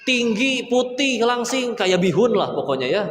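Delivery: voice of temptation. Acted. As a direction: tempt him like a giggling inner devil. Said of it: "hawa nafsuku berkata".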